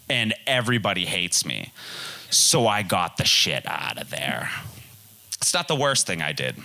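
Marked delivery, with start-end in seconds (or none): 2.3-4.5 whisper. Real, not acted. Sneaking out of hated party.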